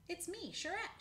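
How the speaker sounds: high-pitched, sweet little greeting; sweetly. A narrator's reading. Squirrel reminds the old man who she is, sweetly. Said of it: "she said sweetly".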